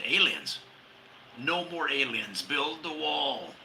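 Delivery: mock Trump. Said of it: "Trump heard about it. He said".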